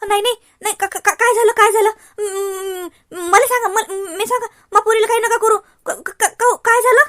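loud stammering sobbing plea; tearful pleading. Acted. Aunt begging son-in-law not to hit the girl, tearful and loud. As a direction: beg through tears, stammering.

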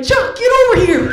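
calling out. Retold or imitated. Guy at the bar calling his friend over, loud shout. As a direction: yell for your buddy to come over.

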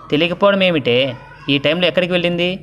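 an anxious mother demanding answers, lightly acted; flustered worry. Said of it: "ఎందుకు అంత కంగారు పడతావు?".

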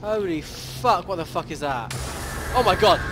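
loud frightened yells; startled shouting. Real, not acted. Monster appears in horror game.

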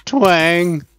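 a plucky spoken "twang" like a bowstring; twang sound. Shown as a demonstration. Vlogger correcting himself with a bowstring twang. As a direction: say "twang" as a mild imitated bowstring snap. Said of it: "This is a twang".

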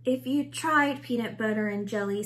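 lightly voiced zombie; mild zombie pitch. A narrator's reading. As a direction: coax in a moaning zombie voice. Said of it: "said Reginald".

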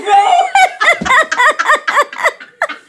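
shrieking laugh, very high; loud laughing shout. Real, not acted. Big laugh at own joke.

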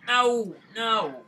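mock angry voice. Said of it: "In an angry voice".

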